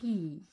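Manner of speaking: long rolling French R sliding into "Ri"; syllabe liée. Shown as a demonstration. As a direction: stretch "Ri": hold the throaty r, then a long i, unbroken. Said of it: "Je ne m'arrête pas entre la lettre R". (« Ri » étiré, r prolongé puis i, sans coupure)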